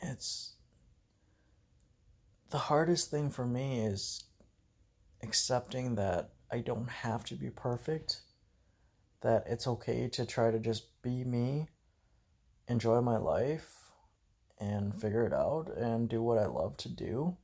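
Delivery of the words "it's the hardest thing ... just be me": choked up. Real, not acted. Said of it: "I'm sorry to get all choked up and teary-eyed".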